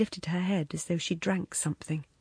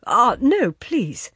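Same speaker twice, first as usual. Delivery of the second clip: urgent plea, louder on ah no; pleading; 4 semitones higher, 8 dB louder, much slower than usual. A narrator's reading. Man begging the woman to stay, urgent plea. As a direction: beg her not to leave. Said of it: "he pleaded".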